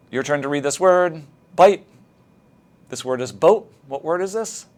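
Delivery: clear, upbeat correction; modeling teacher. Shown as a demonstration. Teacher modeling a correct word for a student, upbeat. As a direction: model the answer brightly. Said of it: "what we should do".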